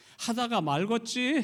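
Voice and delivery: put-on regional Korean dialect, loud. Quoting a deacon's reply, spoken in an imitated regional dialect. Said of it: "제 사투리 흉내가 잘 됐는지 모르겠네요".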